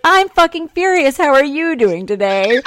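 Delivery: loud, high, bright mock rage; cheery furious. Answering greetings, cheerfully loud and furious. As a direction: announce fury like good news. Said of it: "And I'd be like".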